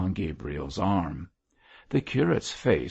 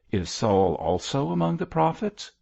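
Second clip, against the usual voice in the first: higher, lightly amazed question; raised-eyebrow surprise, lilting upward; mock-astonished cry; 8 semitones higher, 4 dB louder than usual. A narrator's reading. George reacts to his father visiting the fortune teller, amused astonishment. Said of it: "cried George, with uplifted eyebrows".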